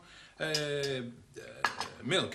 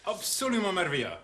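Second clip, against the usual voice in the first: Jersey patois. Shown as a demonstration. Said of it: "Tell me ... in patois".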